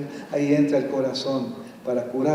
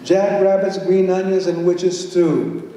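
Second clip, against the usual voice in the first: title called out; 3 semitones higher, 5 dB louder, slower than usual. Acted. Reading the title together.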